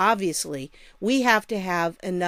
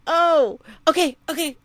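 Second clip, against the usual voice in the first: high giggly voice, can't stop laughing; laughing helplessly while trying again; breaking character giggling; 7 semitones higher, 4 dB louder than usual. Real, not acted. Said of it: "I can't do it".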